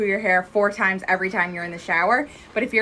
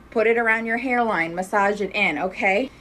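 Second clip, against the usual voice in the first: out of breath. Real, not acted. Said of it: "I'm out of breath".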